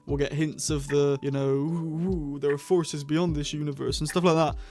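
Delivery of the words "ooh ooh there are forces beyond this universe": lightly mocking, ghostly "ooh"; a hint of spooky teasing. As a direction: draw out the oohs in mild mock mystery. Mimicking vague spooky series hints.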